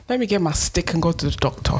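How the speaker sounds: quick, badly faked Nigerian accent; half-land a Nigerian accent. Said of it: "It's supposed to be Nigerian".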